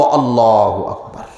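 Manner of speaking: slow, low intoned takbir; audible prayer takbir. Shown as a demonstration. Teacher showing how to say the takbir audibly, slow and low. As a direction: draw it out aloud, sinking in pitch. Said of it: "আওয়াজ দি বলবো".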